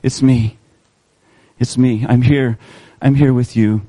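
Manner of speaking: low, gentle comfort; calm a frightened friend; reassuring Jesus. Acted. Jesus calms his scared disciples, low and gentle. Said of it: "And Jesus says to them".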